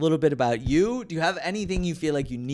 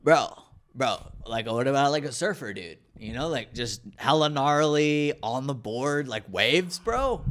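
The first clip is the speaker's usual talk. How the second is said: lightly voiced surfer dude, close to own voice. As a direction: play a chill surfer dude, stretching the words. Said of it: "I could do another character".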